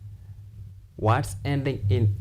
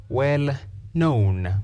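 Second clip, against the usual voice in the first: "Well known" with the weight landing on "known"; stress on KNOWN; 3 semitones higher than usual. Shown as a demonstration. Teacher to English class, showing compound adjective stress. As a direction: lean into "known", keep "Well" light. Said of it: "stress the second part".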